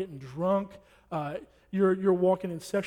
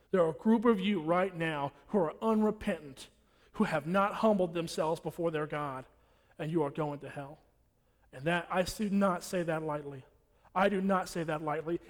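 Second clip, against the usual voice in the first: ordinary delivery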